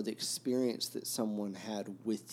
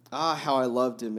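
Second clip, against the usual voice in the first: mild, louder storybook exclamation; exclaiming; 3 semitones higher, 8 dB louder than usual. A narrator's reading. Kolya speaking of his lost friend, mild exclamation. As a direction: read it as a heartfelt outburst, lightly acted. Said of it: "exclaimed Kolya".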